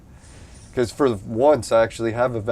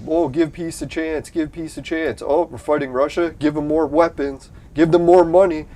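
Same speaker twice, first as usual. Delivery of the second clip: higher, singsong mock of media slogans; 5 semitones higher, 4 dB louder than usual. Ranting viewer mocks the media, raised singsong voice. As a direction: parrot the media in a raised, chirpy voice. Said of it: "The fucking media".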